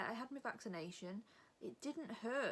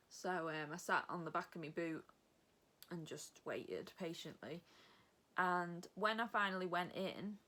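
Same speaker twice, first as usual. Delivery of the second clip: ordinary talk, nothing marked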